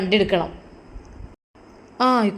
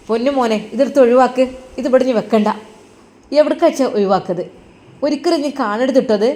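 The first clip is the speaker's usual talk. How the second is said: firm mother. Acted. Mother telling her son to get rid of the photo, firm. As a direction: tell him to throw it out for his own good.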